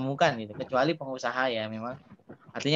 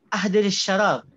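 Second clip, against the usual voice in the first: Arab host's request; 5 semitones higher, 4 dB louder than usual. Retold or imitated. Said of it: "Mereka ngomongnya ahdiri".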